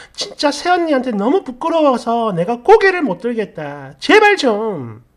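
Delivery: a mock-furious tirade at mom; angry yelling. Daughter yelling at her mother over unfair treatment, angry. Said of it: "고래고래 소리를 지르며 화를 냈어요".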